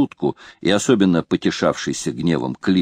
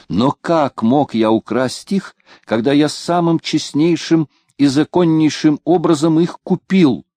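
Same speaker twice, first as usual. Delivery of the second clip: indignant pedlar; 8 semitones higher, 3 dB louder than usual. Acted. Разносчик оправдывается перед капитаном.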